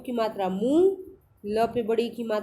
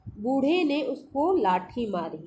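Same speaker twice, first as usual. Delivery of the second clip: slow reading aloud; 2 semitones higher, slower than usual. Shown as a demonstration. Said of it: "चलिए पढ़ना शुरू करते हैं".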